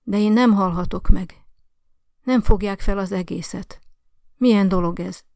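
put-on an old woman's loud, anguished protest; desperate old woman. A narrator's reading. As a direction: cry out against death in outrage. Dying old lady protests.

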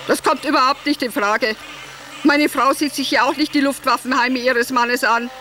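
mildly barked refusal on an even pitch; curt, brusque. Acted. Himmler on the phone refusing the request, curt and brusque. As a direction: reject it brusquely, no room for argument. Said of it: "kurz angebunden und barsch".

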